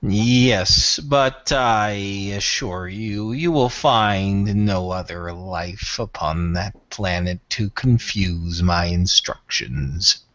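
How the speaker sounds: low, slow, aloof alien lord; Tyrath voice. Acted. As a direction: speak down to them, coldly measured. Tyrath answers Tom.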